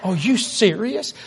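drawn-out, slow mock astonishment; disbelieving waitress. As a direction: imitate a waitress who can't believe it. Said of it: "she said".

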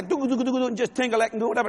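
quick nonsense-syllable piano noodling; imitated piano playing. Shown as a demonstration. Showing the congregation how he used to play, imitated piano. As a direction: rattle off piano sounds by mouth.

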